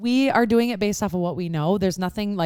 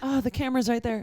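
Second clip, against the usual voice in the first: camera-conscious contestant; 3 semitones higher, 6 dB quieter than usual. Pretend. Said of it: "me on the show".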